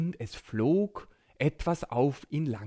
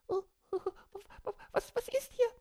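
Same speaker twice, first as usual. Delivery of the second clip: startled; 4 dB quieter, much faster than usual. Acted. Borki hears a strange noise.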